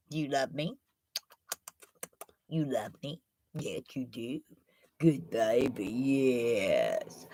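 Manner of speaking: soft, low cooing to a pet; soft pet talk to the little dog. Real, not acted. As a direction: coo lovingly at the dog.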